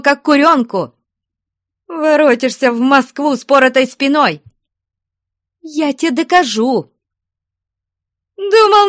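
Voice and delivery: high, loud jealous screaming; raging tirade. Acted. Jealous woman threatening to shame her lover, raging. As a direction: rant at him, voice climbing to a shriek. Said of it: "Пуще прежнего лютовала Устинья".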